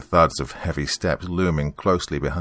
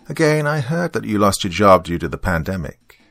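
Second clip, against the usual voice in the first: stern, higher-pitched debt collector; 4 semitones higher, 4 dB louder than usual. Acted. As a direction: press the debtor sternly. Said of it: "he said sternly".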